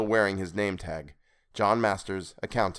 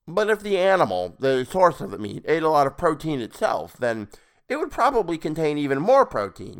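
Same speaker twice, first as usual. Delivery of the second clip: creepy high voice; 7 semitones higher, 4 dB louder than usual. Acted. Creepy stranger character voice.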